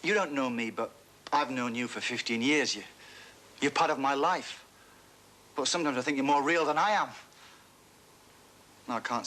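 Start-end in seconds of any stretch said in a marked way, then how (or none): 0.0-7.1 rehearsed sincere speech. Pretend. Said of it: "if I could write a speech".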